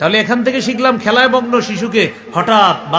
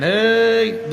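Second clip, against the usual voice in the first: mock scolding call. Parent coming with a cane at a playing child, drawn-out mock call. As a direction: stretch out a half-voiced warning call.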